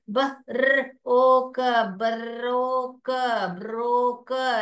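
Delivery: ब र ओ क blended into ब्रोक; sounding out as student. Pretend. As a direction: play the child sounding out. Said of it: "ऐसे पढ़ोगे आप". (बच्चे की तरह ध्वनि जोड़ना)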